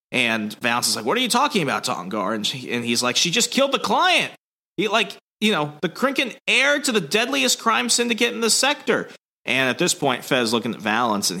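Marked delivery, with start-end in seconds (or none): 1.1-2.3 lightly hammed shock; mock disbelief. Valance questions Tongar. 3.2-9.1 much higher, put-on voice; hammed-up frantic report; mock panicked Tongar. Tongar radioing the bad news, much higher put-on voice.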